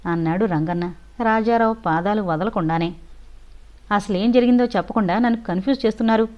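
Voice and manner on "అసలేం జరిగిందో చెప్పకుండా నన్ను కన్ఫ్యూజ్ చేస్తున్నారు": irritated. Acted. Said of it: "విసుక్కున్నాడు రాజారావు".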